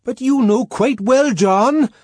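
coaxing at the top of the voice; high, very loud pleading; persuasive shouting. A narrator's reading. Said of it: "sound persuasive at the top of one's voice".

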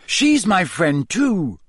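slow, pleading shout; yelling. Acted. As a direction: yell it out, drawn and desperate. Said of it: "Harry yelled".

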